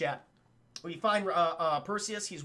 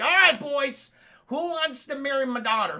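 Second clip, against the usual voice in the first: louder, higher, a queen calling out to suitors; hammed-up queen; 5 semitones higher, 6 dB louder than usual. Queen calls out to the suitors, loud and hammy. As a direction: announce your daughter like a proud queen.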